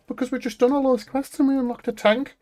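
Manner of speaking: high, laughing retort about the tank; exasperated laughing reply. Retold or imitated. To the teammate who left, a high amused retort. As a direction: explain it as if it's obvious, half laughing.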